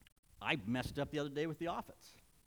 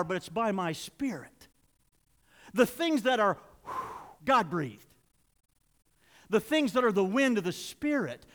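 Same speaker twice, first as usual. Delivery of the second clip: raised, emphatic pulpit voice; preaching; 5 semitones higher, 9 dB louder than usual. Real, not acted. Preacher teaching scripture to the congregation, preaching forcefully. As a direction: drive each point home with punched key words.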